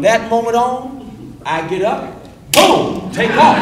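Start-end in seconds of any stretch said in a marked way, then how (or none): 2.5-3.6 sudden liftoff. Retold or imitated. Describing his takeoff.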